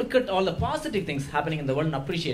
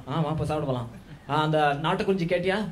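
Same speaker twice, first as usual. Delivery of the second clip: put-on south indian accent; 3 semitones lower, much faster than usual. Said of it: "Tambra mamas will make it".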